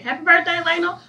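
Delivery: high-pitched shout-out to a relative; sweet, high birthday greeting. Real, not acted. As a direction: send birthday love in a lifted singsong. Birthday shout-out to sister-in-law.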